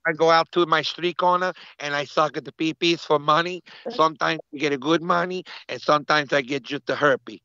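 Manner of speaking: mock Latino accent; put-on Colombian accent. Co-host confessing street-corner trade, in a mock Colombian accent. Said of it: "We sound extra Colombian now".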